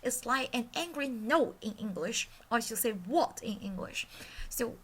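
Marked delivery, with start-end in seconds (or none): 2.9-3.4 WHAT falling sharply from high. Shown as a demonstration. Teacher shows tone four with English, sharp fall. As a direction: drop "what" like an angry no. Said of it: "falls from high pitch sharply to low".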